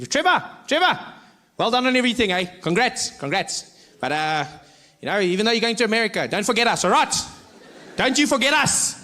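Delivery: high, excited well-wisher; eager fan. Retold or imitated. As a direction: gush at Trevor like a fan. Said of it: "Strangest things people would say".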